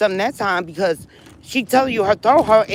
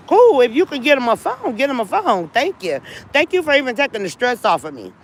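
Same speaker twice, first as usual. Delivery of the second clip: sarcastic; 4 semitones higher than usual. Retold or imitated. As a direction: brush her off with fake gratitude. Sarcastic reply to rival.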